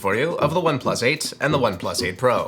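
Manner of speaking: theatrical presenter opening; newscaster voice. Real, not acted. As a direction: announce it like a TV host. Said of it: "I don't know why I sound like a newscaster".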